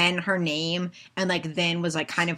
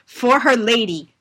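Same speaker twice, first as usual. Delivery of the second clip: loud, slow cheer of loyalty; rally behind her lady; hammed-up battle cry, higher and louder; mock rallying cry; 4 semitones higher, 7 dB louder, slower than usual.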